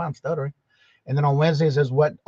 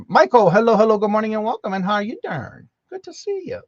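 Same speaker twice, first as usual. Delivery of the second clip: excited greeting; 7 semitones higher, 7 dB louder than usual. Real, not acted. Greeting viewers on live stream.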